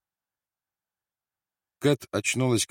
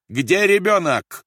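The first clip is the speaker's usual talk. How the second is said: high, loud, drawn-out yell; shouting; 12 semitones higher, 10 dB louder, slower than usual. A narrator's reading. Officer demands the child, shouting. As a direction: bellow the question. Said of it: "закричал Рольф".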